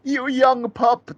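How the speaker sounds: high, loud, drawn-out movie yell; imitated yell. Quoting the man who thought Paul was dead, mock yell. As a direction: yell it slowly at high pitch. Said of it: "That's what he's yelling".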